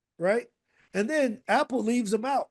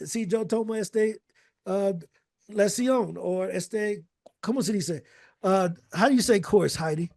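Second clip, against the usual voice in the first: mock Spanish-speaking customer; 2 semitones higher than usual. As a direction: play a confused customer stuck on Spanish words. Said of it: "someone talking in an accent".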